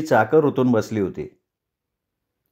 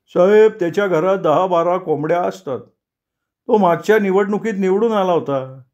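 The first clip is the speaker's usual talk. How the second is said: a touch higher, chatty village driver; Devkule's voice; 4 semitones higher than usual. Acted. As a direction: explain it slyly to the sahib. (थोडा उंच, गप्पिष्ट driver)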